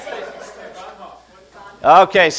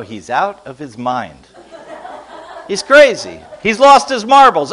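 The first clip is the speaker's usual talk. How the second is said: mock exclaiming; 3 dB louder than usual. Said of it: "relatives in Germany go".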